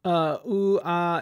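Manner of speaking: goofy cartoon band voice; a cartoon band's voice. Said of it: "in my cartoon band voice".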